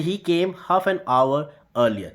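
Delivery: slow, careful example sentence; slow example read. Shown as a demonstration. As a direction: read the example slowly and clearly. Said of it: "देख लेते हैं example".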